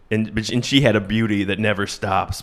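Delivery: lightly voiced country balladeer; a hint of a dark country storyteller; understated mock country singer; a singer. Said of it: "sounds exactly like Johnny Cash".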